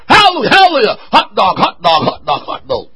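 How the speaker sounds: mock preacher yelling hallelujah then fading; mock preacher crying out hallelujah, trailing off; mocking empty shouting. Shown as a demonstration. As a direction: parody a preacher shouting nonsense. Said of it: "Don't get up here and just shout words".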